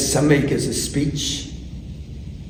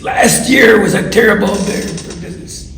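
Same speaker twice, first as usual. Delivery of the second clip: put-on higher, loud thick-accented declaration; louder, thick accent; 6 semitones higher, 5 dB louder than usual. Donor repeating himself after the crowd yells louder, loud accented shout. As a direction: project to the back of the room with a thick accent. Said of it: "Louder, louder".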